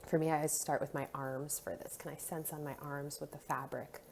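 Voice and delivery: soft, calm body-scan guidance; guided meditation. Acted. Guide leading listeners through touch points and skin sensations, soothing guided meditation. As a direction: lead them gently through each sensation, leaving pauses.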